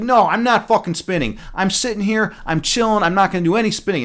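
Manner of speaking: lightly voiced stubborn daughter; defiant daughter. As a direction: sass back like a lazy kid. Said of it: "And she's like".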